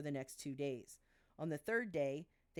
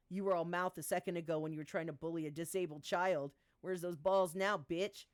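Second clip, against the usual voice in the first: louder, threatening rebuke; angry; 4 dB louder than usual. Acted. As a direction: tear into a bully. V threatening Gabe.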